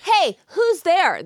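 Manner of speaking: slow wary call; suspicious guard. Pretend. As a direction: challenge the caller warily. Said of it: "I'm doing you".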